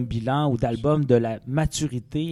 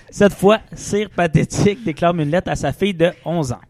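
hammy stage actor; 3 semitones higher, 4 dB louder than usual. Acted. Hammy chronicle reading.

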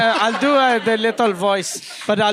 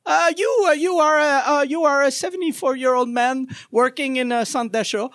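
put-on little child voice. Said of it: "I'll do the little voice".

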